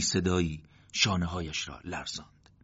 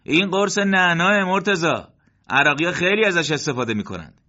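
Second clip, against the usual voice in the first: amused explanation; 10 semitones higher, 7 dB louder than usual. Acted.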